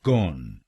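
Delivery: कॉन said low and isolated with an open o; teacher drills the first syllable कॉन; syllable demo. Shown as a demonstration. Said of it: "इसको बोलिएगा कॉन".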